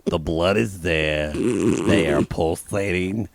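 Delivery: slow, hammed-up sultry voice; mock sultry. Co-host playing Lisa overdoing her arousal, slow and hammy. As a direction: ham it up, drawn out.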